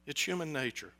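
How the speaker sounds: dropped to a quiet repeat; quiet second take. Real, not acted.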